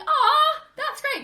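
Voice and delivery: high, loud teary laugh on aw; laugh-crying. Retold or imitated. Viewer reacting to the movie, high laughing sob. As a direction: gush through laughter and tears. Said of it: "And I was like".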